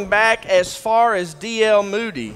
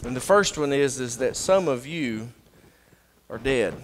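quiet preaching; 6 semitones lower, 6 dB quieter than usual. Acted. Drops into quiet intimate preaching.

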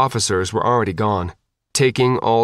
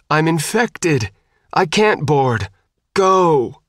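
desperate scream; 6 semitones higher, slower than usual. A narrator's reading. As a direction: cry out to drive him away. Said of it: "Gwyn screamed".

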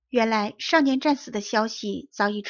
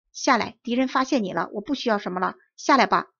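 calling him down, louder and louder; urgent shout; 4 dB louder than usual. Acted. Officer shouting up to the boy under fire, urgent calls. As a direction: order him down before he's hit. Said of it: "军官叫着说".

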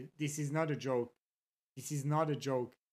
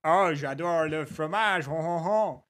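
playful mock-French, ending in a stock chuckle; Aiko's French imitation; 3 semitones lower than usual. Streamer shows how a friend speaks French, in mock-French caricature. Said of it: "when Aiko is speaking French".

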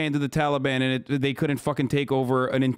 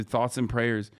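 sarcastic quote; 3 semitones lower, 3 dB quieter, slower than usual. Retold or imitated. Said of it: "Motherfucker said".

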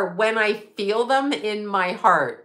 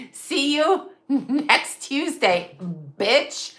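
slow, half-laughing, half-crying; 3 semitones higher, much slower than usual. Real, not acted. Quoting the client's insult, breaking up laughing. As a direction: drag it out through helpless laughter.

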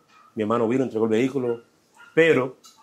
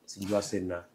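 retold crying; 3 semitones lower, 13 dB quieter than usual. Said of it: "ya yo estaba llorando".

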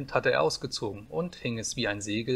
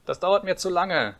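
put-on high, loud childish complaint; impatient little boy; 7 semitones higher, 5 dB louder than usual. A narrator's reading. Impatient boy voiced in a story. (ungeduldiger kleiner Junge)

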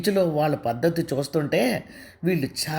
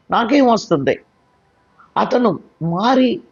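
higher, bitter and defiant; angry; 6 semitones higher than usual. Acted. Anusha refuses to file a case, bitterly angry. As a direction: spit out that he means nothing now. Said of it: "అని అంది కోపంగా అనూష".

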